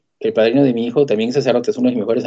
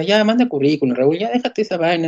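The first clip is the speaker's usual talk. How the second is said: impatient nagging; 5 semitones higher than usual. Retold or imitated. Wife urges him to give up.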